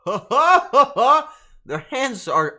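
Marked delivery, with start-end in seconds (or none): 0.0-1.4 loud, high hammed-up cackle of laughter; exaggerated ha-ha laugh, pitched way up; mock laughing fit. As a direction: act out helpless laughing, much louder. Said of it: "because they're like".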